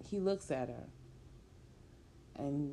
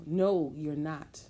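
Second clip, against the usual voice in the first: defiant shout; 7 dB louder, slower than usual. Acted. Woman stops him leaving.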